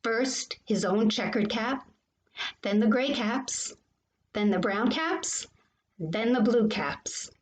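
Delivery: animated picture-book storytelling; reading to children. A narrator's reading. Teacher reading a favorite story to boys and girls, animated. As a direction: read it to children with lively lifts and pauses.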